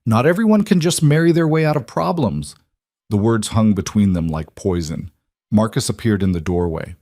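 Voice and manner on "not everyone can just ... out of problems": angry. Acted. Maya keeps shouting.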